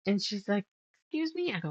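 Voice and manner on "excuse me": surprised. Retold or imitated. Old lady reacts to weed fabric.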